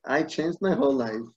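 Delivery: mildly indignant, rising in pitch as it goes; imitating a hurt, defensive man; retold offence. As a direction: protest your case like someone slighted. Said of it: "this guy got really offended".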